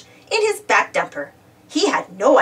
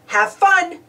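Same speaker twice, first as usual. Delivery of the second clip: called after; 7 semitones higher than usual. A narrator's reading. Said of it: "he called after them".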